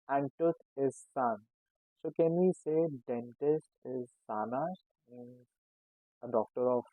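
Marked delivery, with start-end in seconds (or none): 1.1-1.4 Zahn said "tsahn"; German pronunciation. Shown as a demonstration. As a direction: start Zahn with an s-like hiss. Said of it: "sounds as S".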